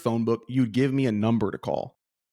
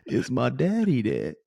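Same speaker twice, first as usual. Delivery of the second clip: put-on little chubby kid. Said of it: "little chubby kid".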